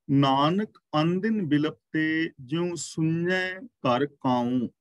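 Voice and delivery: very slow, careful recitation of the verse; slow correct recitation. Shown as a demonstration. Preacher reciting the verse again with the right sounds, slowly. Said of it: "ਇਹਨੂੰ ... ਨਹੀਂ ਪੜ੍ਹਨਾ".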